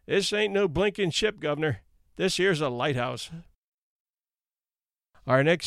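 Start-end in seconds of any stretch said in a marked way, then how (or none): 0.0-3.3 sardonic. Acted. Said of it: "a sardonic voice".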